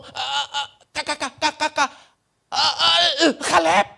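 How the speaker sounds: imitating a stutter, stuck on every syllable; stuttering Moses. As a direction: stammer your way to the name Kaleb. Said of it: "orang yang gagap". (meniru Musa yang gagap, tersendat-sendat)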